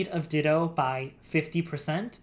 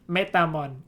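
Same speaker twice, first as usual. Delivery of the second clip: laughing. Pretend. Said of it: "in a bad Jamaican accent".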